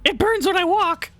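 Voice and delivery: very high squawky bird voice; grackle squawk. Pretend. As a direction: squawk the words like a crow. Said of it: "make the crow noise".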